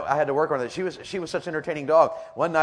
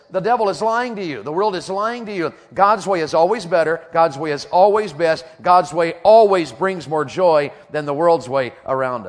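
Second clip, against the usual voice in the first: loud, insistent pulpit declaration; forceful preaching; 4 semitones higher, 6 dB louder than usual. Real, not acted. Preacher warning kids against the devil's lies, forceful preaching. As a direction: drive each claim home to the congregation.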